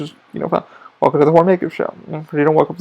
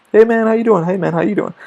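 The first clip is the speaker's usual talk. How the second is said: chill techs' hello, acted out; easygoing buddy hello; imitated friendly greeting; 6 semitones higher than usual. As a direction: greet a coworker in passing, casually upbeat. Acts out chill techs greeting him.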